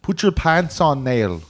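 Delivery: put-on Irish scolding; mock Irish accent. Irish parent telling Nail to dress, mock Irish accent.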